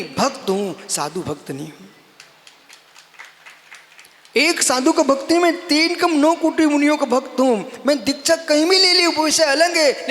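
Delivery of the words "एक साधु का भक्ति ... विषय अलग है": forceful preaching. Real, not acted.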